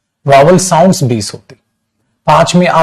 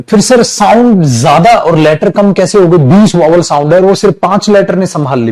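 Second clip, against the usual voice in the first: puzzled student; 3 semitones higher than usual. Retold or imitated. Student asking sir how the count works, lightly acted puzzlement. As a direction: ask it as a baffled pupil, pitched up a little.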